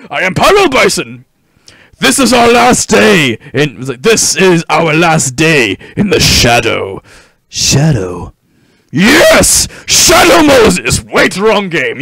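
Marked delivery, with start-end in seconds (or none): 0.1-11.0 boss voice. Acted. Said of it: "I don't know why I sound like this".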